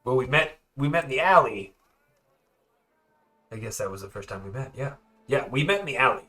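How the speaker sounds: eager prisoner bluffing; eager Werner. Acted. Werner bluffing to the prisoner who questions him. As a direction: talk fast to be believed.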